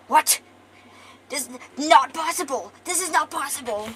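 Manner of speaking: loud, high cry of disbelief; shocked villain outburst. Acted. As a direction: explode in outraged disbelief. Villain shocked by rival's arrival.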